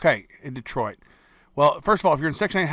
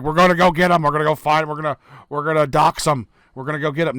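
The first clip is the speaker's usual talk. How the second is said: louder hammed-up threat, chanting it; mock gang threat, louder and pushier; mock thug threat; 7 dB louder, faster than usual. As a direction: play the hater swearing to hunt him down.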